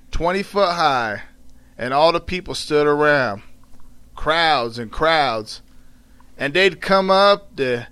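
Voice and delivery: measured Southern dialect narration; storytelling in dialect. A narrator's reading. Aunt Rachel recalling the auction, in measured Southern dialect. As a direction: tell it with pauses, in Southern dialect.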